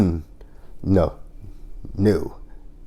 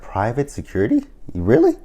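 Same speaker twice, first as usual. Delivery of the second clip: incredulous; 4 semitones higher than usual. Retold or imitated. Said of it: "She's like".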